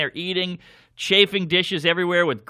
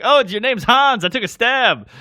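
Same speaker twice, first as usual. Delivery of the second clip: cocky stage reply; 8 semitones higher, 5 dB louder than usual. Retold or imitated. Comic replying to Hans.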